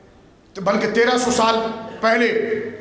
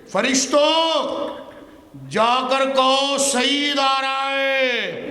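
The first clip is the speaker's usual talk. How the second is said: mocking naat reciter; 2 semitones higher, much slower than usual. Preacher imitates the young man reciting his own verse, very slow and stretched. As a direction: parody the reciter's stretched delivery. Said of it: "کہنے لگا".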